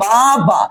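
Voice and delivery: "বাবা" in two separate beats, বা then বা; split into syllables. Shown as a demonstration. Teacher showing students what a syllable is, split into syllables. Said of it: "দুইবারে বলেছি".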